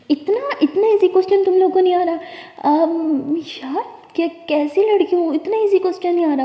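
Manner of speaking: put-on older sister bluffing to the girls with a scoff; boastful scoff. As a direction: bluff that it's too easy. Sister boasts, stalling on question.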